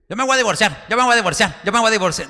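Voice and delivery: proud insistence. Pretend. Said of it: "viene el orgullo y dice".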